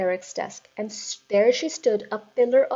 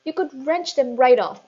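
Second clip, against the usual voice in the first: much higher, pleading; begged; 6 semitones higher, 6 dB louder than usual. A narrator's reading. Teacher begging the headmistress, much higher. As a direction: beg her to stop.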